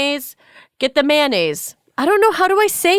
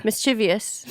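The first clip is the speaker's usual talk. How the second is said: slower; 2 semitones lower, 7 dB quieter than usual. Shown as a demonstration. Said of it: "say it slower".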